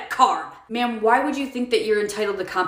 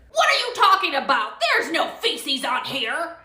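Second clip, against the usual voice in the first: indignant denial; 6 semitones higher than usual. Acted. Customer denies the feces.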